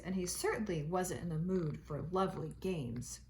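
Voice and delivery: gentle read-aloud storytelling voice; reading aloud to a child at home; storybook narration. A narrator's reading. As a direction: read it like a bedtime picture book. Reading picture book to children.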